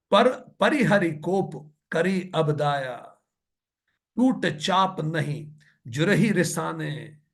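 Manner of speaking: slow, drawn-out scripture chanting; measured devotional verse reading; verse recitation. Acted. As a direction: recite the couplet slowly, stretching each word.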